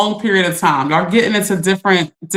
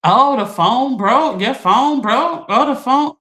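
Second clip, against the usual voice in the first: mocking whiny quote; 4 semitones higher, slower than usual. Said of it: "people would be like".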